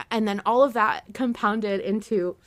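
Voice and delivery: tearful, choked-up words; blubbering. Real, not acted. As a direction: voice breaking while crying. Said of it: "sorry, I'm crying".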